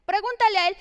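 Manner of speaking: annoyed teacher. Retold or imitated. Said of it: "Me dice".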